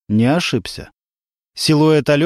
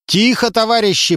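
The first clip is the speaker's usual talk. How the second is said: calm the crowd down; call to order; 8 semitones higher than usual. A narrator's reading. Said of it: "призвал он пассажиров к порядку". (призывает пассажиров к порядку громко)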